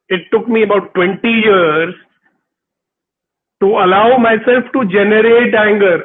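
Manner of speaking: usual speaking voice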